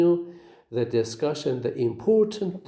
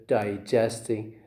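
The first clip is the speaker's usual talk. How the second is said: Digesting stressed on its middle syllable, GEST; second-syllable stress; 4 semitones lower, 3 dB quieter than usual. Shown as a demonstration. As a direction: model Digesting as di-GEST-ing. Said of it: "How do you say?".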